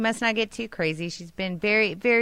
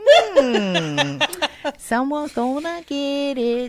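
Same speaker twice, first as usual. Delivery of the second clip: menacing threat; 7 semitones higher, much slower than usual. Retold or imitated. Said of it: "She's all".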